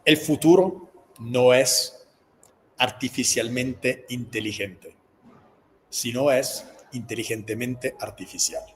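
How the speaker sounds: slow closing line with long pauses; frase de cierre. Shown as a demonstration. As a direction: deliver a signature line, slowly and weightily. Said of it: "dice así". (frase de cierre, lenta y pausada)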